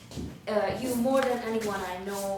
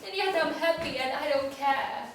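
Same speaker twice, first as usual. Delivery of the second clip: pushed dismissive; 3 semitones higher than usual. Shown as a demonstration. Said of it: "do it fully".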